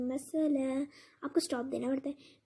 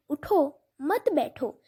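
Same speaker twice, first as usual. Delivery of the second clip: اٹھو, clear stop, then مت بیٹھو as one phrase; pause after اٹھو; 3 dB louder than usual. Shown as a demonstration. Teacher showing the correct stop, pause between اٹھو and مت. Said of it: "میں نے یہاں اسٹاپ لے لی".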